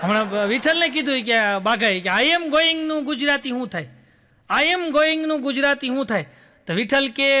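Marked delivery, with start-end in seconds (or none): 2.1-6.3 dim-witted slow question. Acted. Bagho asks a silly question.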